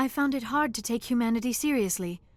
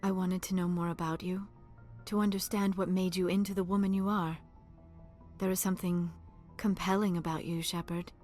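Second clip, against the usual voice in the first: softly confiding, slightly lowered voice; hushed, intimate admiration; tender confession; 3 semitones lower, 5 dB quieter than usual. Acted. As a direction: admit your fascination gently, with small pauses. Confides growing attraction to commander.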